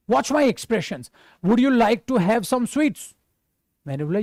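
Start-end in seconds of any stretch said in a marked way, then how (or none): 1.5-3.2 a stern, unfriendly offer. Shown as a demonstration. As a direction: ask as though it's a chore. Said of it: "ये क्या tone है भाई तेरी". (रूखे लहजे में पूछना)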